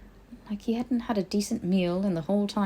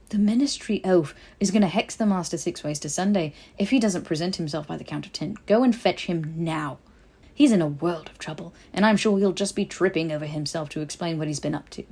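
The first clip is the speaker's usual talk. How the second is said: louder, sharp threat; irritated; 3 dB louder than usual. Acted. Harry threatening the house elf, irritated. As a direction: lay down the ultimatum.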